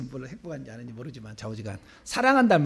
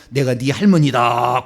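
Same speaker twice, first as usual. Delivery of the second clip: grandmother spirit's voice; 5 semitones lower, 7 dB louder, slower than usual. Retold or imitated. Grandmother spirit announcing herself.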